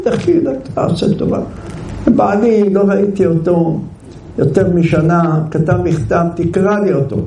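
high, pleading village wife voice. Retold or imitated. Wife begs passerby to read.

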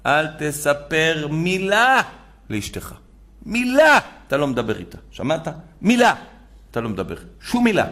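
firm, insistent rabbi, punching each "מילה"; stern order. Retold or imitated. Rabbi sternly ordering the groom to keep silent, insistent. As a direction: lay down the law to the groom.

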